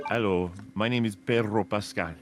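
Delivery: lightly imitated Spanish pronunciation of "Pedro Pascal"; a hint of the actor's Spanish accent. Friend mimicking the actor's introduction, light Spanish accent. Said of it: "where he says".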